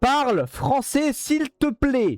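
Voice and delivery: slow, drawn-out begging; slow pleading. Real, not acted. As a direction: stretch each word like begging. Begging the AI slowly.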